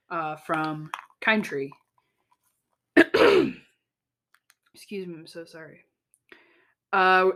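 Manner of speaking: hoarse, fading voice; losing voice. Real, not acted. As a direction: talk through a voice that's giving out. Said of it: "I'm losing my voice".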